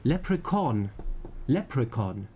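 Leprechaun with stress on Lep; careful Leprechaun, LEP carrying the stress; first-syllable stress. Shown as a demonstration. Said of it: "Betonung erste Silbe".

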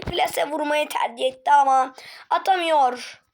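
excited play-by-play calling the shot; match commentary. Acted. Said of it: "spikerlik değil de anlatacağım".

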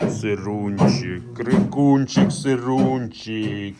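slow, drawn-out pet names; slow loving croon to a little calf; slow coo to a calf. Real, not acted. Cooing to a calf.

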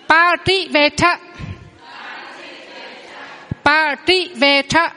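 slow Pativeta with a rising end; slow model word. Shown as a demonstration. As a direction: drill Pativeta slowly. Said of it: "đọc lại ba cặp này".

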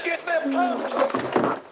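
slow cowboy drawl. Acted. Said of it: "sound like a goddamn cowboy".

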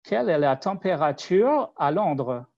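French question in an English accent. Shown as a demonstration. Asking the French voice search in an English accent. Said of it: "but with an English accent".

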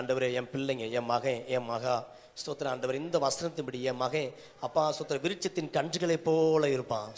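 earnest prayer addressed to God; led prayer. Real, not acted. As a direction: lead them in prayer phrase by phrase. Leads congregation in repeated prayer.

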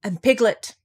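high, spaced-out protest; loud insistence. A narrator's reading. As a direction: insist on who you are, loudly. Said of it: "said Piglet loudly".

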